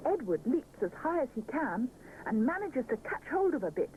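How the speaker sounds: usual speaking voice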